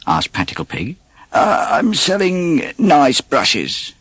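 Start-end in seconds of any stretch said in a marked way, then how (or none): 1.3-3.9 slow, sly put-on peddler voice; a wolf faking a friendly salesman; disguised wolf. Wolf pretending to sell brushes, slow and sly. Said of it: "answered the wolf".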